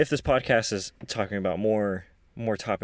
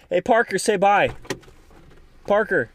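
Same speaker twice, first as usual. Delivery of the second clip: calling out; 10 semitones higher, 8 dB louder than usual. Real, not acted. Calling child to say bye.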